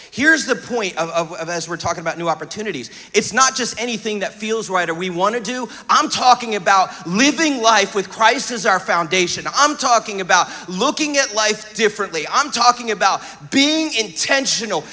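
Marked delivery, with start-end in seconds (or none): 3.1-14.8 earnest, driving sermon delivery; emphatic preaching. Real, not acted. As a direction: preach it with punch on the key words. Preaches with force to congregation.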